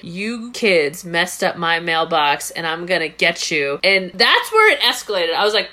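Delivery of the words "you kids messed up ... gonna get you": lightly voiced gun-toting neighbor; menacing neighbor. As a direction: growl it low like an angry old neighbor. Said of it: "point it in their face to say".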